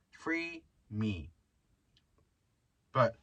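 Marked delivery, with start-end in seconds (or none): 0.1-1.3 mock plea. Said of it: "I fucking sound like a homeless person".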